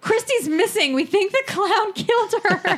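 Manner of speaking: high-pitched fake panic, amused; mock alarm. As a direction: feign alarm while holding back laughter. Pranksters faking alarm to friend.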